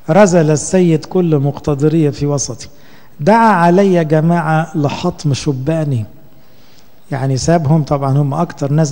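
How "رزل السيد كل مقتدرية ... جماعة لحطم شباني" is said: slow, solemn recitation of the verse; scripture reading. Acted. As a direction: intone the scripture line by line. Reads Lamentations verse aloud.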